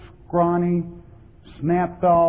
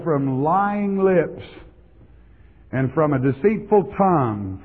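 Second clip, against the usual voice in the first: scripture reading. Real, not acted. Preacher reading Psalms to the congregation, solemn recital. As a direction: read the psalm like a proclamation.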